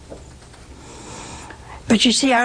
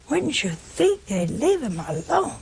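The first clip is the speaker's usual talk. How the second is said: higher, pleading repeat; 6 semitones higher than usual. Acted. Preacher repeats rhetorical question.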